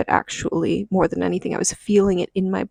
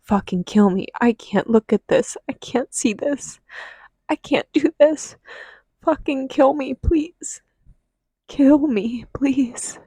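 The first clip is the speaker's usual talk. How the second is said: desperate begging; 5 semitones higher than usual. Retold or imitated. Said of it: "I was like".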